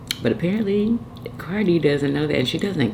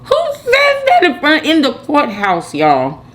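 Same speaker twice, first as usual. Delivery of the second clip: laughing and much higher; laughing disbelief; 11 semitones higher, 5 dB louder than usual. Real, not acted. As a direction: laugh through the question. Laughing at a rapper.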